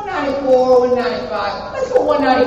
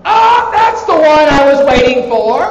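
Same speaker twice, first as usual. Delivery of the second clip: loud, higher-pitched excited cry; delighted outburst; 5 semitones higher, 8 dB louder than usual. Real, not acted. Lecturer hears the awaited Kuwait answer from a student, loud and excited. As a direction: pounce loudly on the awaited answer.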